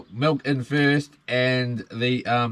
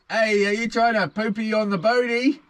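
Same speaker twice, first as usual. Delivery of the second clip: put-on baby talk; 7 semitones higher than usual. Scolding birds near the boat.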